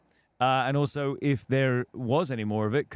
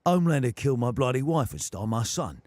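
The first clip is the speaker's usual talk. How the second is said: Cockney Butcher; 3 dB louder than usual. Shown as a demonstration. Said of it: "a bit too Jason Statham still".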